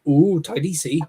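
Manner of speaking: imitated Welsh local, drawn "ooh"; Welsh accent. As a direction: coo it in a mock Welsh accent. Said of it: "get to Wales and I hear someone going".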